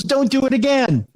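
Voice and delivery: retold stern warning. Engineer warning the host before hanging up, mock stern. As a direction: bark the warning like a fed-up engineer.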